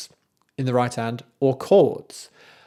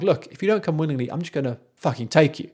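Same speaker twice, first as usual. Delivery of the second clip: threatening Erlking; 3 semitones higher, faster than usual. Retold or imitated. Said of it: "He shifts".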